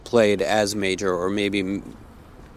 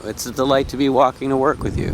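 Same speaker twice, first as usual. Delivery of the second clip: giggly; 4 semitones higher than usual. Real, not acted. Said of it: "I'm so giggly about this".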